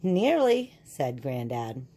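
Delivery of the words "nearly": gentle tease. Acted. Granddad teases Mole.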